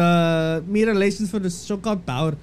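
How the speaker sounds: put-on botched Irish accent that sounds Indian; failed Irish-Indian accent mash-up; fake Irish gone Indian. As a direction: read in mock Irish, sliding into Indian. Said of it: "You sound so Indian".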